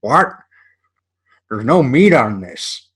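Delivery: slow, puzzled complaining voice; mock outraged customer. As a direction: act baffled at the empty burger.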